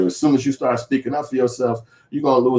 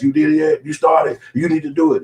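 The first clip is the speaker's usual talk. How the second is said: pushy nagging friend; 7 semitones higher than usual. Retold or imitated. Friend pushing you about school, high mock nagging. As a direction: press them like an impatient nag. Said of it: "they might even call you ass".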